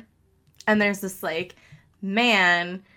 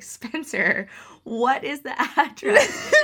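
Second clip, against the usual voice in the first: laughing exasperation; 6 semitones higher, slower than usual. Retold or imitated. Asking after the wrong house.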